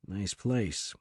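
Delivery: soft, hushed aside; said quietly. A narrator's reading. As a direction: keep it low so only Knight hears. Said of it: "Morgan said quietly to Knight".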